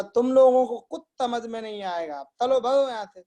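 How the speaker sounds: imitating a lisping teacher chasing pupils off; mock teacher's threat. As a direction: shoo the class away in mock anger. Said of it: "उठाया डंडा, बोला".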